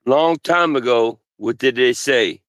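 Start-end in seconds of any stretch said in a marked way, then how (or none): none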